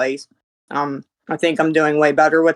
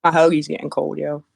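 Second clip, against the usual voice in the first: chewing while talking. Real, not acted. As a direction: mouth full of hoagie. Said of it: "Sorry, I'm trying to eat dinner".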